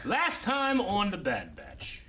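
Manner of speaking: drawn-out TV recap voice; dramatic slow recap; slow announcer recap. Pretend. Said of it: "I'm infecting the rest of you".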